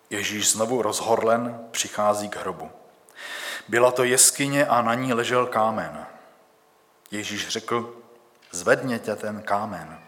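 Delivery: measured, solemn reading of the Gospel; scripture reading. Acted. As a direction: read it like a church lesson, steady and clear. Preacher reads Bible passage aloud. (slavnostní čtení Písma)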